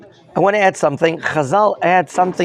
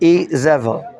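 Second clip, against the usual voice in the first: "Izebel" with the second part said louder; stress on second part; slower than usual. Shown as a demonstration. Teacher names the king's wife, louder on the end of "Izebel". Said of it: "pronounces the second part of her name louder".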